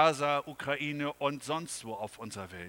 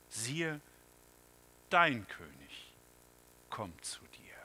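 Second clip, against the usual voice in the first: whisper; 2 semitones lower than usual. Acted. Sermon climax, intimate promise.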